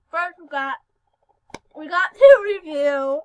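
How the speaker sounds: slurring around a palate expander; talking with expander. Real, not acted. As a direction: speak with a fresh expander in. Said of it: "I'm talking so weird right now".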